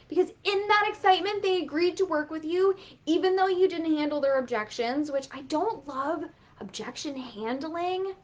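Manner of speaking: ordinary talk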